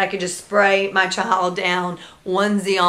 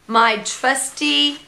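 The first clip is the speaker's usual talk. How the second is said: slow, drawn-out grand announcement; mock heroic; 2 semitones lower, slower than usual. Mom gearing up for the diaper mess, mock-grand slow delivery. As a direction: play it like fetching a weapon. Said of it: "I decide".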